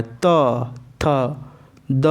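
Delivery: त, थ, द with the tongue pressed on the teeth; demonstrating dental sounds. Shown as a demonstration. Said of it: "दांत पे जोर पड़ रहा है". (दांत पर जोर देकर)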